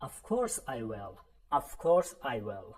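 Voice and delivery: slow, clearly spaced English for learners; slow model sentence. Shown as a demonstration. Teacher modelling a phrase for students, slow and clear. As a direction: say each word slowly so students can repeat.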